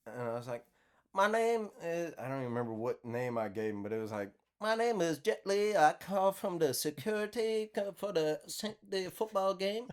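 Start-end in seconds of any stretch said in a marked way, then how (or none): 1.1-2.1 put-on high-pitched prank-call Asian accent; hammed-up Asian caller voice. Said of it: "she heard me do the accent". 4.6-9.9 high, halting mock Asian accent; hammed-up Asian caller, pitched up. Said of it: "she heard me do the accent".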